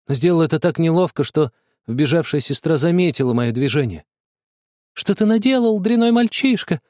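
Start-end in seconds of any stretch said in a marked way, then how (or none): 4.9-6.8 furious scolding, high and loud; angry shout. A narrator's reading. Sister catches the boy by the broken toy, angry yelling. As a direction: yell at the little brother in fury. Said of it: "закричала она".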